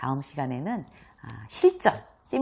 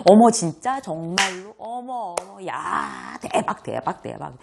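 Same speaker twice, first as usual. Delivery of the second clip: hammed-up gushing that fades out; overdone surprise; 3 semitones higher, 3 dB louder, slower than usual. Shown as a demonstration. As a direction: pile on fake exclamations. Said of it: "이거 안 돼요".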